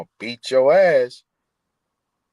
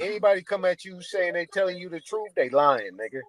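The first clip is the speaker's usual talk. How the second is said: fast and heated; getting fired up, talking over; worked up; 5 semitones higher than usual. Real, not acted. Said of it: "Calm down".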